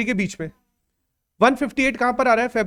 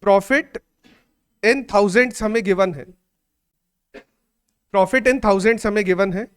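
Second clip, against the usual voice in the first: dictating; much slower than usual. Shown as a demonstration. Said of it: "कितना data हम लिख सकते हैं".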